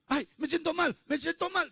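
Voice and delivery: high-pitched mock whine of illness; hammed-up teenage play-acting, pitched high; faking sick teenager. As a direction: put on a show of feeling sick. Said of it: "hace todo un show".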